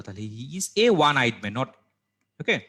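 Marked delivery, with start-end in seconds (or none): 0.4-1.5 slow "he is a one eyed man", marking "a"; stress on A. Shown as a demonstration. Teacher gives students the answer, slow stress on "a". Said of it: "তাহলে এ হওয়ার কথা".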